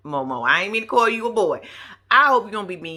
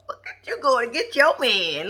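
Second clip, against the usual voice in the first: teasing whisper; 3 semitones higher than usual. Retold or imitated. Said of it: "I was like".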